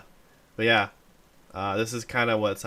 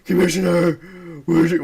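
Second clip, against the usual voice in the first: higher, louder call; hammed-up hero voice; mock calling out; 7 semitones higher, 6 dB louder than usual. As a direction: call out for the commissioner. Quoting Batman calling.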